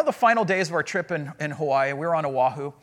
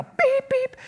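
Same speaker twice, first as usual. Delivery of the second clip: high-pitched honking beeps; imitated car horn. Imitates the angry driver's horn.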